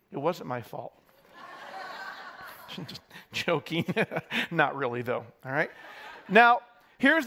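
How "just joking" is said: laughing. Real, not acted. Pastor jokes after blaming tech.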